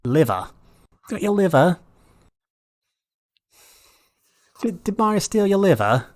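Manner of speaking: put-on liver in a British accent, r dropped, toying with it; playful British accent. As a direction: keep tossing liver around British style. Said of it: "fun word to say in that accent".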